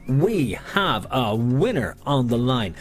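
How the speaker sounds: bingo caller. Acted. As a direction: announce the win to the hall. Bingo announcement.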